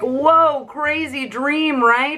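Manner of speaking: high, drawn-out dazed wonder; awestruck waking children. Retold or imitated. Kids waking to each other after a crazy dream, awestruck. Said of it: "they're like".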